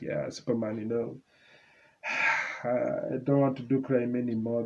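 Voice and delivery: mock weak deathbed voice. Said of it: "he's going to be like".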